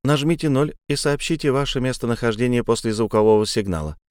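mechanical recorded lady; like an automated hotline message; phone menu voice. Acted. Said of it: "механическая леди".

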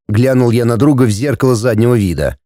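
ordinary delivery, nothing marked

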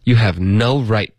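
"You" hit firmly, the rest lighter; stress on you. Shown as a demonstration. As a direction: lean on "You" to show the stress. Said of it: "重音在哪儿呢".

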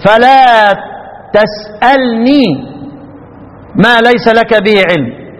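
تسألني slowly with a light nun and no ya; Kufan reading. Shown as a demonstration. Teacher showing students how the Kufans read it, slow recitation. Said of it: "يقرؤون إيه؟".

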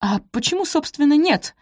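high, defiant challenge; full voice. A narrator's reading. Maid dares to answer mistress back, full voice. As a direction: throw it back at her openly. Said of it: "уже в полный голос бросила Софи".

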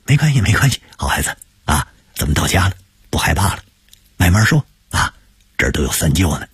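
put-on an old shopkeeper coaxing a child; kindly elder uncle. Uncle wipes the boy's face.

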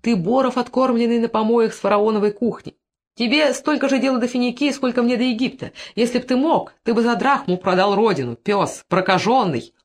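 high-pitched, heated tirade; angry shout. A narrator's reading. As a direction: hurl insults, slowing on the final curse. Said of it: "крикнул".

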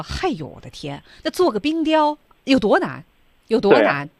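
lightly acted grumble, exasperated; complaining. Organiser to her two friends about an ice sculpture, complaining. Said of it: "啊，一个抱怨的话".

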